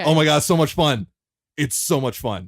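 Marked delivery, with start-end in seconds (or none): 0.0-1.1 loud, gushing burst of enthusiasm; excited. Real, not acted. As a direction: blurt it out, thrilled. Gushing about the game.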